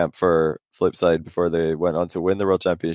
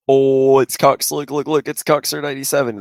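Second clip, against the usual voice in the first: mock fanboy gush; 6 semitones higher, 3 dB louder than usual. Mock fan excitement.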